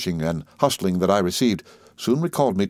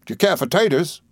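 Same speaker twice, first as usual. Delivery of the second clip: higher-pitched, coaxing waiter's question; insinuating waiter; 7 semitones higher than usual. A narrator's reading. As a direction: ask ingratiatingly with an insinuating smile. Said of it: "with an insinuating smile".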